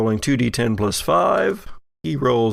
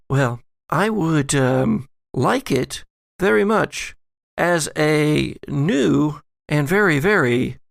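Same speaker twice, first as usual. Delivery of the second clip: posh lady voice; 3 semitones higher than usual. Acted. GM voices Allison, higher.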